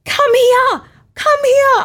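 high, loud call. Retold or imitated. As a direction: shout them over from the boat. Brain calling out to jet skiers.

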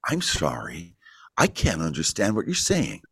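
lightly voiced puzzled meeting-goer; mock incomprehension, lightly put on; baffled listener. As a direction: imitate someone politely failing to understand. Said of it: "people would literally be sitting in front of me go".

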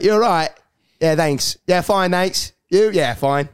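imitated British exchange of greetings; British small talk. Acting out British people greeting each other, British accent. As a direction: lightly put on a British accent. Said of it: "other British people are like".

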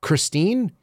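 lightly acted incredulous question; mock disbelief. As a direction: imitate dad's put-on astonishment. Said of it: "he'll go".

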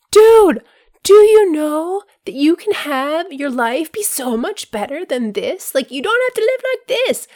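loud, high, eager call to a friend; excited shouting. Pretend. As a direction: shout it from the rooftops. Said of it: "shout it from the rooftops".

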